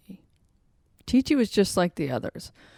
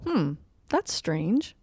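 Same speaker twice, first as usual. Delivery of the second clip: puzzled human; slower than usual. Acted. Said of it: "said the human".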